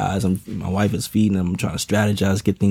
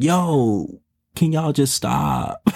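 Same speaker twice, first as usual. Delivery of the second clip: high, slow, worn-out plea; exasperated plea; 5 semitones higher, much slower than usual. Retold or imitated. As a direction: beg them to stop, fed up. Stressed parent pleading with kids.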